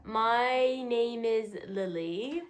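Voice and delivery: slow, weary-sounding introduction; drawn-out, tired self-introduction. Real, not acted. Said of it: "I sounded tired".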